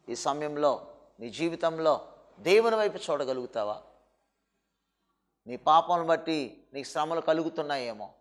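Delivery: preacher consoling someone in distress; soft reassuring preaching. Acted. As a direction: comfort the grieving listener quietly. Preacher comforts softly.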